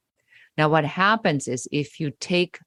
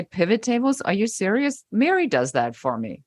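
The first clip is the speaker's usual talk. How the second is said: higher, laughing off the criticism; amused disbelief; 5 semitones higher than usual. Pretend. Answering a performance review jab, amused scoffing. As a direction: scoff at it with a grin. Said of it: "you start laughing, and you say".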